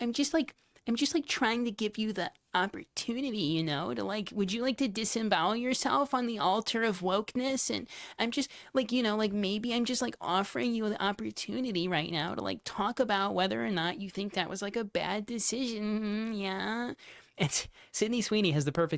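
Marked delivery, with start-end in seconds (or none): 0.0-16.9 smarmy, slimy, pitched-up voice. Imitating an interviewer pressing a guest to apologize: mocking imitation of a slimy interviewer. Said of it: "it's like this slimy thing".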